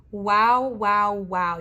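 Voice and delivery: loud, delighted repeated wow; thrilled at the star card in the viewers' reading, loud; excited. Real, not acted. Excited loud wow.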